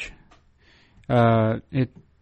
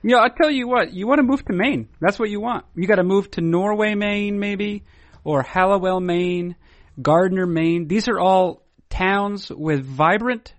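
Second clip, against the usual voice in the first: mock real estate pitch; 3 semitones higher than usual. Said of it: "I'm selling".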